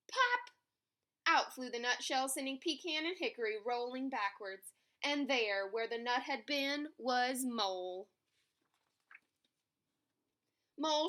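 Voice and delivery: animated picture-book reading; story narration. A narrator's reading. Narrator telling children about an animal race, story narration. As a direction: tell it to young children.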